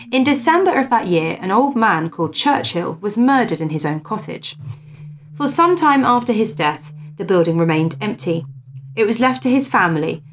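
lifted, measured storyteller's voice; story narration. Acted. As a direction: read the old ghost tale aloud with emphasis. Reads a ghost story aloud.

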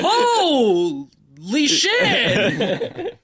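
high, laughing drawn-out echo; laughing mock repeat. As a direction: laugh while mimicking the line. Mocking the flat line, laughing.

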